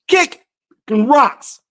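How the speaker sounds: sing-song taunt. Shown as a demonstration. Taunting America with a sing-song kick rocks. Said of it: "second take, sing-song".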